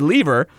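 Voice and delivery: "lever" said as LEE-ver; British pronunciation. Shown as a demonstration. Reading the email for UK friends, "lever" as LEE-ver. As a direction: give "lever" a long British ee. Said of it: "just to nod to our U K friends".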